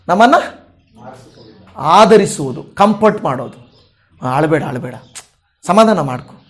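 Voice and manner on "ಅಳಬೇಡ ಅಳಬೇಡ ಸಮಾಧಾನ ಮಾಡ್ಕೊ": comforting. Retold or imitated. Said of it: "ಅಂತ ಆದರಿಸ್ತಾರ".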